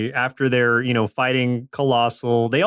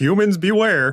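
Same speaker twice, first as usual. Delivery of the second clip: pitched-up, nasty, lame would-be menacing alien voice; 7 semitones higher than usual. Joking around, the speaker shows off a nasty alien voice. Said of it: "This is my alien voice".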